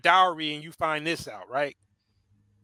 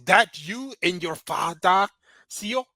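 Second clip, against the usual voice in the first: mock African accent; slower than usual. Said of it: "our bad African accent for dramatic effect".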